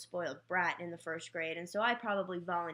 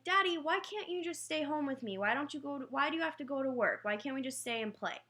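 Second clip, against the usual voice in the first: put-on higher, whiny child's plea; pleading little girl; 6 semitones higher, faster than usual. Six-year-old begging her dad not to leave for work, pleading. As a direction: beg daddy to stay home like a six-year-old.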